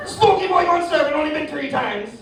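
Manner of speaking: put-on very high Caribbean-accented holler; mocking, high-pitched Caribbean shout; Caribbean rental guy. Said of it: "He's like".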